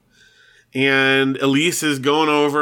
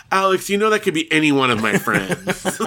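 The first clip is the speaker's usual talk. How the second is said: higher-pitched, laughing imitation of an angry sister; mock exasperation; 6 semitones higher than usual. Sister scolds brother over phone message, mock mad. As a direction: retell her complaint as a playful scolding. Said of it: "then she's all mad".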